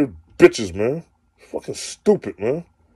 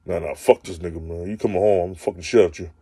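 mock jealous boyfriend; 7 semitones lower, 5 dB quieter than usual. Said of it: "he wanna whisper in her ear".

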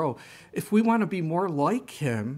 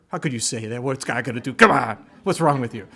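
mock angry retort; 4 dB louder, faster than usual. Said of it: "I was really angry with her".

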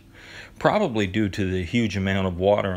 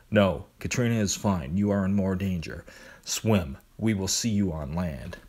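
monotone voice. Acted. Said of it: "his usual monotone voice".

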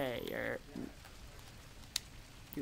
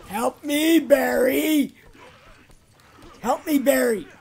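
playful, raised-voice plea for rescue; mock cry for help; 4 semitones higher, 5 dB louder, slower than usual. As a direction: call out high and loud to an ally. Calling game character for help.

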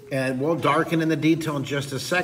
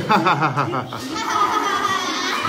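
forced laugh; 7 semitones higher, slower than usual. Shown as a demonstration. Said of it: "someone say".

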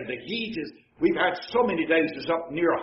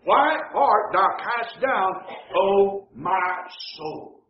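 drawn-out, solemn reading; slow scripture reading; much slower than usual. Acted. Preacher reads the psalm, slow and solemn. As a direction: linger on "O my soul".

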